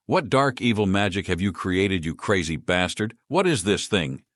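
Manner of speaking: a hint of an angry mage growling. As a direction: growl it at him, understated. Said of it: "she growled at him".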